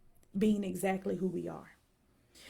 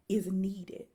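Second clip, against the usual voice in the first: whispered. Real, not acted. Speaker to online audience, whispered for emphasis. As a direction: drop to a breathy whisper on is needed. Whispered line in motivational talk.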